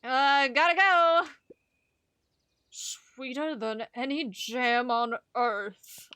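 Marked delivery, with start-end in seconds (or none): 3.2-6.1 slow, lightly voiced old man; a hint of a folksy old shopkeeper, taking his time. Shopkeeper chatting to Luca, slow lightly voiced old man. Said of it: "this old man".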